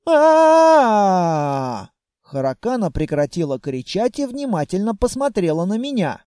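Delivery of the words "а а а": loud, far-off scream; a frightened dragon yelp; dragon's shriek. A narrator's reading. Dragoness crying out at the hero, loud shriek.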